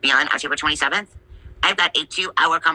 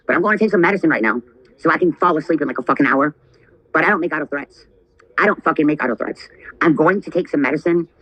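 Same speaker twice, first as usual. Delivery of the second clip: angry threats; 3 dB louder than usual. Real, not acted. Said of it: "You've pissed me off".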